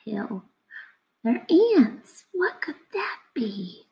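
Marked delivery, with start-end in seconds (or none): 2.3-3.9 curious breathy whisper. Acted. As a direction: wonder aloud in a hush. Teacher wondering aloud to children.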